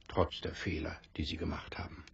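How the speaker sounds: soft whispered goodbye; hushed farewell. Acted. Saying goodnight at the dying captain's side, whispered. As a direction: whisper as if not to wake him.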